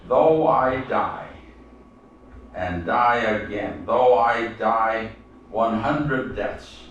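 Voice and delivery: slow, measured reading that swells on "my red heart"; solemn demonstration of the rhythm of a loyal poem; slow poem recitation. Shown as a demonstration. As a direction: recite it slowly, pausing at each phrase. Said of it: "See how the rhythm goes?".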